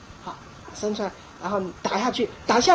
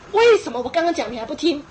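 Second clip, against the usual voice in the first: 生气的家长; 3 semitones higher, 4 dB louder than usual. Retold or imitated. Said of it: "你要那么生气还那么难过".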